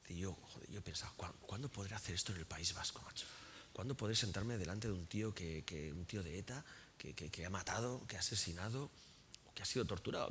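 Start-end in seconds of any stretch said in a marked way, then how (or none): 1.2-10.3 soft, hushed inner voice; whispered thought. Retold or imitated. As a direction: hush it like a secret wish. Retells his own inner thought.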